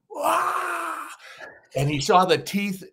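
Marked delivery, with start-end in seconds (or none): 0.1-1.1 mock scare yell. Scaring the director with fake fangs, high mock yell. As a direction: jump at him with a playful yelp. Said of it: "And I went".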